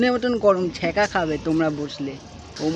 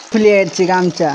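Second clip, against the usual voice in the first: loud exclaim; 10 dB louder than usual. Real, not acted. Sister shouting at brother as his towel slips, loud exclaim. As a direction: shout the warning across the room.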